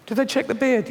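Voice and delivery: high, anxious question; high worried voice. Acted. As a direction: ask it nervously, high. Fearful voice.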